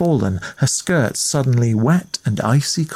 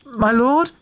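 quivering voice; 11 semitones higher than usual. A narrator's reading. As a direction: try again more timidly. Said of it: "she repeated".

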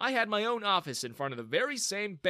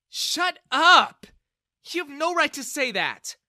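much higher, much louder furious shout; 12 semitones higher, 11 dB louder than usual. A narrator's reading. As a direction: shut him down. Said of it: "Bella intervened".

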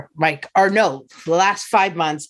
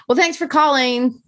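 mock dismissive agent; 8 semitones higher than usual. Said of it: "the guy went".

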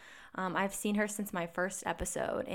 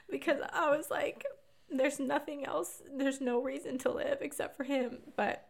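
crying; 5 semitones higher than usual. Real, not acted. Emotional retelling, crying.

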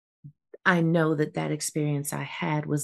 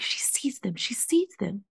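stunned whisper; 3 semitones higher, 4 dB quieter than usual. Retold or imitated. Stunned realization, repeated.

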